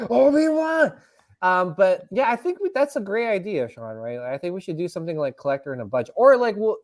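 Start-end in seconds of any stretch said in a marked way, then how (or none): 0.1-0.9 high, loud cry through laughter; laughing cry. Pretend. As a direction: wail it while laughing. Repeating the defeated cry, laughing.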